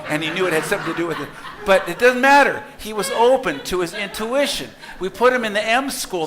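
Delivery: laughing. Real, not acted. Laughing while retelling son's story.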